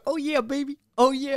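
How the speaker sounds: high squawky parrot imitation. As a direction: mimic a parrot saying oh yeah baby. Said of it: "he's just sitting in the corner".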